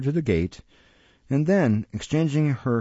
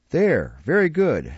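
put-on gleeful old Fagin; 5 semitones higher than usual. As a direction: relish every word, rubbing hands. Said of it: "rubbing his hands".

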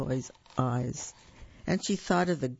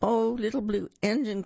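crying out; 6 semitones higher than usual. A narrator's reading. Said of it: "cried the dolls and toys".

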